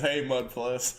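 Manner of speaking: amused, laughing as you read; reading through laughter. Real, not acted. Reads teasing chat message while laughing.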